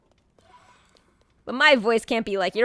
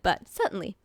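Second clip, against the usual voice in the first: a lightly done bad British accent, trailing off quietly; half-hearted British "certainly"; 3 semitones lower, 5 dB quieter than usual. Shown as a demonstration. Streamer mocking her own British accent for bot Jim. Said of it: "Do not think for one second that I think this is a good British accent".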